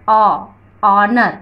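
"अ" alone, then "ऑनर" with no h; silent H demo. Shown as a demonstration. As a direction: lead into "ऑनर" from its vowel. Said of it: "इस तरीके से हम इसको pronounce करेंगे". ("ऑनर" बिना ह के बोलना)

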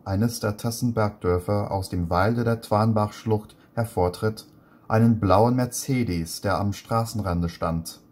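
careful, measured reading of a German text; reading German aloud. Shown as a demonstration. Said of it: "I'm gonna start by reading".

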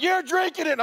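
high, loud stern order; stern command. Acted. Moses ordering the Israelites to drink the powder, loud stern command. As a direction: bark the order like an angry dad.

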